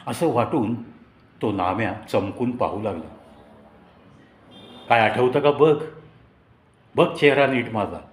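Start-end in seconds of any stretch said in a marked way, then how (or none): 4.9-8.0 loud, mock-intimidating demand; bully him playfully to look closer; threatening shout. Narrator demanding his classmate recognise him, threatening shout. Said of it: "असं मी दरडावणीच्या स्वरात त्याच्याकडे ओरडलो".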